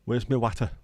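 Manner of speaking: Lancashire, flat short a in water; Lancashire accent. Shown as a demonstration. Streamer testing Lancashire accent for chat. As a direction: ask for your water like a Lancashire lad. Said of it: "bits of Lancashire also talk like that".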